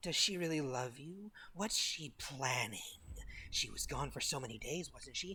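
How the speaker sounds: whispered. After a Wisdom saving throw, voicing the whispers a player's character hears: whisper. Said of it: "whispers of".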